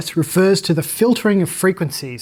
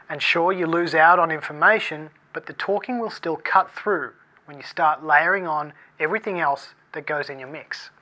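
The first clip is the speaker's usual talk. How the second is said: telephone voice. Shown as a demonstration. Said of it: "Let me show you what that sounds like".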